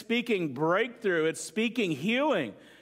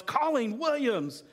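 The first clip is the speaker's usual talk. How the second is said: a higher, sudden mock yell of his wife's name; startled yell; 5 semitones higher, slower than usual. Husband Robert startled in traffic, mock yell. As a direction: blurt her name like a curse in traffic.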